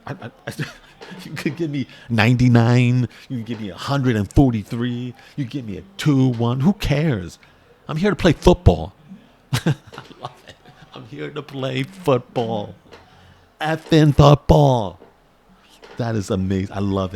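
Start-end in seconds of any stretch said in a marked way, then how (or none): 0.1-8.9 hyped quote. Retold or imitated. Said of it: "And he's like". 10.9-15.0 slow, with a big loud finish on football; emphatic punch. Retold or imitated. Fan repeating rookie's quote, emphatic punch.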